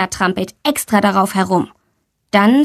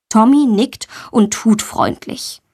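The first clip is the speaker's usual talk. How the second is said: ordinary delivery, nothing marked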